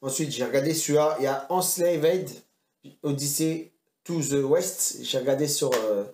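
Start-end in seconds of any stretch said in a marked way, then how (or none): 1.5-5.0 slow, showy attempt at English; game title in careful French-tinged English; English accent. Shown as a demonstration. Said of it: "t'as vu l'accent anglais".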